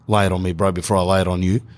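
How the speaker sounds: understated deadpan dad; emotionless. Acted. Dad waiting for son's exam result, deadpan. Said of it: "with no emotion in his face".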